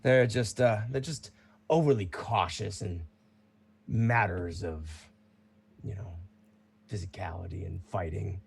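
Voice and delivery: lightly voiced proud fighter, mostly in own voice; a hint of a seasoned champion; casual veteran fighter answering; Bruno the champion. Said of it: "He goes".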